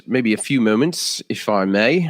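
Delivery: lightly put-on British accent. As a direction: slip playfully into a hint of British. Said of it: "I'm speaking in a British accent".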